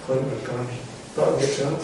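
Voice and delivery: calm a sulking disciple kindly; pitying Jesus. Acted. Jesus, out of pity, soothes Peter, soft and low. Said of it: "Chúa Giêsu thương hại".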